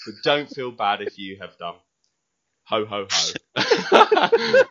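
jolly Santa-style greeting, lightly voiced; hearty festive voice message. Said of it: "give our lovely listeners an example".

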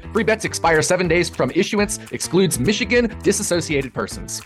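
rapid-fire legal fine print; fast legal disclaimer. Acted. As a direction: rattle off the disclaimer quickly.

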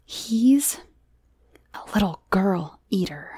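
suspenseful, halting scare tale; spooky storytelling. Acted. Johnny frightens Miranda about the girl eater, ominous. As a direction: build suspense with ominous pauses. Man tells child scary tale.

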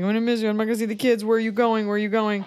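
mock tearful mother. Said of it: "she's crying".

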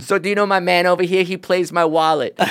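high-pitched rapper swagger impression; impression of a rapper. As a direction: boss your sidekick around as the star. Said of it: "that's a good Drake impression".

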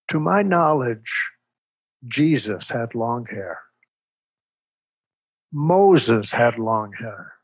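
imitating a father's deliberate, dignified public speech; father's formal address. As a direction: address the board like a defense attorney. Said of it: "And he says this".

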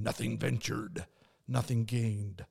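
a hint of a weird voice, slowing on the last words; weird daredevil voice. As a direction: play the inner daredevil in a slightly odd voice. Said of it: "That was a weird voice".

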